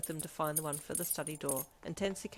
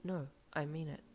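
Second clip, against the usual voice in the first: quiet, sincere insistence; soft, honest reassurance; complete honesty; 4 dB quieter than usual. A narrator's reading. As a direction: insist gently and earnestly. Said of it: "he said with complete honesty".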